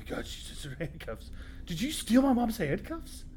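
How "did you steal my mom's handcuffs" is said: high slow shocked question; outraged disbelief. Acted. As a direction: stretch it out in shock. Kid confronting friend, outraged.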